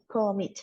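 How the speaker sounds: "Commit" stressed on MIT, falling at the end; stress on second syllable. Shown as a demonstration. Teacher repeats the example for students, second-syllable stress on "Commit". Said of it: "el acento está en la segunda sílaba".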